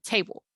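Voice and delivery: "table" cut short at the end; first syllable of "table" full, the ending brief. Shown as a demonstration. Teacher repeats the example word, ending of "table" cut short. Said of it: "It's cut at the end".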